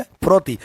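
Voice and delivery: फिरौती said clearly as phi-rau-ti, falling tune; फिरौती का साफ़ उच्चारण; pronunciation demo. Shown as a demonstration. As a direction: model the word फिरौती slowly and clearly. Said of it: "इसका pronunciation क्या है?".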